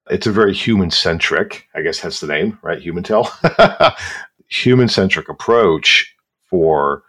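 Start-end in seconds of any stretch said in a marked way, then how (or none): 3.3-4.2 a quick airy high laugh; short high laugh. Real, not acted. Host amused by the Humantel name pun, laughing briefly.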